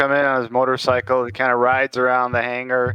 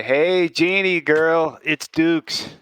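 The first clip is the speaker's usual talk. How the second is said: friendly greeting; 4 semitones higher, much slower than usual. Acted. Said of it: "I'm gonna call her up and say".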